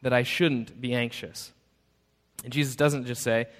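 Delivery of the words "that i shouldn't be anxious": louder, higher plea for a reason; mock demanding question. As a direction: press for an answer, half-hammed. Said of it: "the question that you might have then is".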